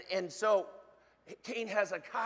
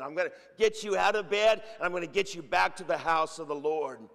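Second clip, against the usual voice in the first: full-force preaching; 5 dB louder than usual. Acted. Preacher declaring God's answer to prayer, loud and emphatic. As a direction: proclaim it to the congregation, leaning hard on each phrase. Goes on proclaiming God's promises.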